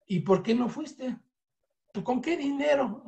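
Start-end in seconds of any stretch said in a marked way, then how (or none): 1.9-3.0 mock indignant friend. Friend's broke reply acted out.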